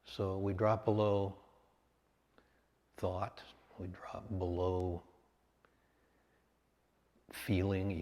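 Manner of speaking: unhurried meditation guide with long pauses; guided meditation. Real, not acted. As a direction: guide them calmly into body sensation, phrase by phrase.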